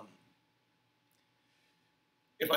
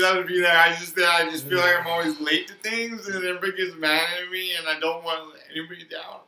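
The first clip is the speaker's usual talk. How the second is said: put-on breathy old man voice; wheezing old man; 6 dB louder than usual. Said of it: "you sound like a, a wheezing old man".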